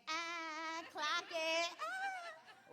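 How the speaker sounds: loud, high gloating whoop; taunting cheer. Retold or imitated. Coach taunting the losing team, loud gloating whoop. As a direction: rub it in their faces, loudly. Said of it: "I used to be up in there like".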